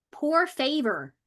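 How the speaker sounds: high, slow Southern drawl on Spanish; playful Southern-accented Spanish. Pretend. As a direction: put a slow Southern twang on it. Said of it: "let me do my Southern voice".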